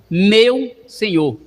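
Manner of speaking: very slow, meu stressed; explaining slowly. Shown as a demonstration. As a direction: dwell on meu.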